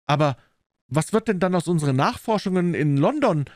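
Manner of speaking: high, mildly troubled question; dejected client. A narrator's reading. Client asks detective about the investigation, mildly dejected. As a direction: ask in dismay, pitched well up. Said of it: "fragte Phelps betrübt".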